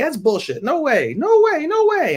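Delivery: rising to a high, loud no way; mock shrieking denial; disbelieving outburst. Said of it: "they're like".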